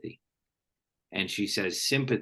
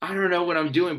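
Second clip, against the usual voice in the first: put-on much higher, louder flustered kid voice; mock panicked kid; 10 semitones higher, 5 dB louder, faster than usual. Host voicing a thirteen year old on the phone, mock panic. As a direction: squeak it out in a panic, hammed-up.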